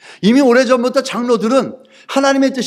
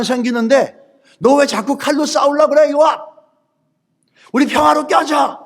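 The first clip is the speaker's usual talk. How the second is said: acted appeal; 2 semitones higher than usual. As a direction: plead across to an enemy, pitch climbing. Acted plea to stop fighting.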